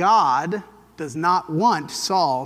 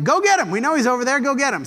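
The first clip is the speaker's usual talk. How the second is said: angry order; 5 semitones higher, faster than usual. Retold or imitated. Saul orders soldiers after David.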